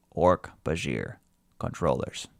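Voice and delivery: alien voice. Shown as a demonstration. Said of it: "I was supposed to do that in alien voice".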